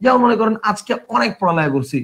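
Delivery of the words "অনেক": অনেক said "aw-nek"; open ɔ vowel. Shown as a demonstration. Teacher gives students an example, অনেক as "aw-nek". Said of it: "অ এর উচ্চারণ তুমি অ করো".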